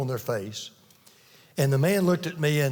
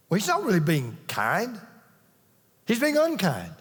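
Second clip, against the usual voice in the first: raised, driving sermon voice, higher pitch; preaching; 4 semitones higher than usual. Acted. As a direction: preach it out to the congregation with conviction. Preaching at full force.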